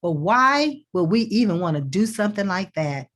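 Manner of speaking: skeptical, closed-off asking; defensive why-question. Shown as a demonstration. Coach demonstrating a defensive question to listeners, skeptical tone. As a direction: ask it like you doubt the whole idea. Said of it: "look at my body language, look at my eye contact, listen to the tone".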